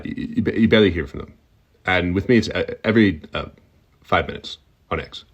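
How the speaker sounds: stuttering halting Elon Musk voice, lightly shifted; a hint of Elon, stammering and glitching; lightly voiced Elon, broken by stutters and pauses; Elon Musk impression. Shown as a demonstration. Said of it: "how to do Elon Musk".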